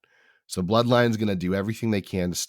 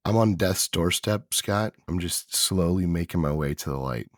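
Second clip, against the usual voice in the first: rough, raspy from illness; sick hoarse voice. Real, not acted. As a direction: croak it out like a bad cold. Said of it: "I like the voice".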